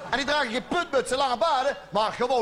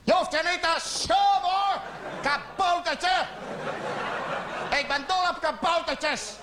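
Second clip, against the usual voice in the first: high, cooing comfort for a small creature; sweet talk to a gnome; 5 semitones higher than usual. Retold or imitated. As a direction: soothe him like a shy toddler. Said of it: "Dus ik zei". (hoog en lief, sussend)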